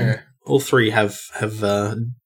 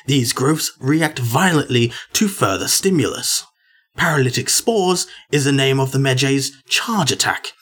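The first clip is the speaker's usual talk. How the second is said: David Attenborough. Pretend. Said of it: "David Attenborough on the show".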